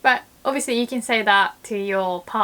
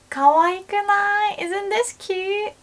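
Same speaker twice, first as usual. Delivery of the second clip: gushing question; 11 semitones higher, 3 dB louder than usual. Shown as a demonstration. Showing a friend something cute, much higher coo.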